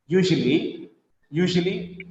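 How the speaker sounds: "usually" in three syllables, middle vowel reduced; corrected "usually". Shown as a demonstration. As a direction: say "usually" as YOO-zhuh-lee, as a model. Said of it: "No, usually".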